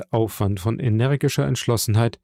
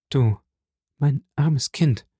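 pitying cry; slower than usual. A narrator's reading. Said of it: "rief Mercedes".

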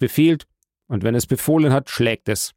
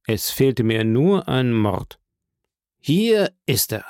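slow gloating; slower than usual. Acted. Gloating over murder case.

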